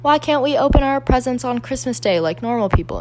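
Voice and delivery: put-on voice of a princess's sons; complaining young sons impression. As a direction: do a child's British-accented question. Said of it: "her sons are like".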